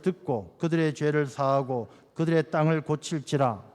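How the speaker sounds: measured reading of a Bible verse; scripture reading. Acted. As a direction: read the verse steadily to the congregation. Reads verse to congregation.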